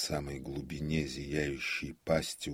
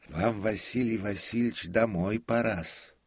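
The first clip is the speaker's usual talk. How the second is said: tender; 7 semitones higher, 5 dB louder than usual. A narrator's reading. Prompter urges the comic home, tenderly. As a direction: gently coax him in a high old voice. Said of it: "сказал нежно Никитушка".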